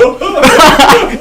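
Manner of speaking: high, loud burst of laughter. Real, not acted. Recalling a friend's warning, laughs out loud.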